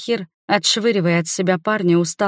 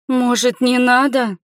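sobbing plea; 6 semitones higher than usual. A narrator's reading. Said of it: "всхлипнула Нерина".

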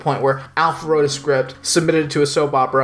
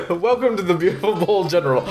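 hammed-up TV announcer; 2 semitones higher, faster than usual. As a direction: introduce the show like an announcer. Mock announcer intro, laughing.

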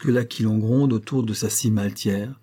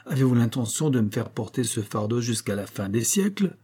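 smug giant Atlas; 4 semitones higher than usual. Acted. Giant smugly tells Hercules to carry the sky for ages. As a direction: gloat as you hand over the burden. Atlas taunts, keeping apples.

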